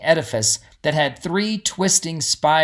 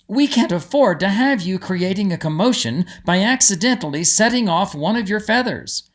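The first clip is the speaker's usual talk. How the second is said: lightly voiced Gertie; 5 semitones higher than usual. Gertie telling excited Molly to settle down. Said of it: "said Gertie".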